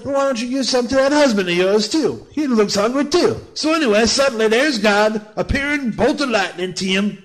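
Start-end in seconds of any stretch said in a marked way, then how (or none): 0.0-3.4 lightly higher, coaxing snake voice; lightly voiced sly snake; voicing the snake. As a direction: egg her on, pitched up. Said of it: "And then he said".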